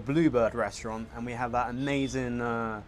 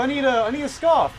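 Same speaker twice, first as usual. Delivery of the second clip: high put-on voice; 13 semitones higher, 6 dB louder than usual. Mock tourist seeking scarf.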